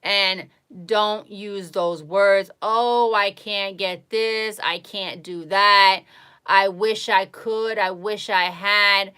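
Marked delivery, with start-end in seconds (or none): 2.6-9.1 mock negative whining. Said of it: "Those are all negative words".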